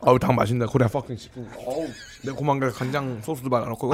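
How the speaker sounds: eating chicken. Real, not acted. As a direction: mouth full of crispy chicken. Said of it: "이 바삭한 거 소리 들어봐요".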